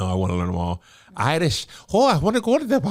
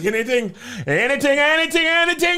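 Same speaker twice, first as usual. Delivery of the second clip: put-on Jamaican accent; 4 semitones higher than usual. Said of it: "And then the black dude's like this".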